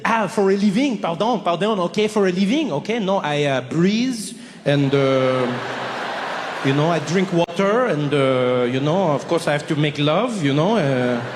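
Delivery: lightly French, puzzled and musing; a carefree Parisian searching for an answer; a hint of a bewildered Frenchman; baffled Frenchman. French person baffled by question.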